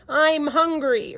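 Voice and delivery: slow, loud lion's roar. A narrator's reading. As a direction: drag out the hunger like a growl. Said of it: "roared the lion".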